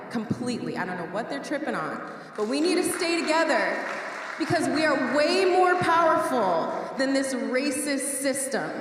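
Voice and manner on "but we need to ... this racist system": raised, higher voice lifting the crowd; rousing rally cry. Real, not acted. Organizer rallies marchers against the system, raised voice. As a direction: call them to stand strong together.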